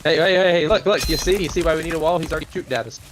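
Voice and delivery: high, excited warning; mock alarm. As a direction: playfully sound the alarm.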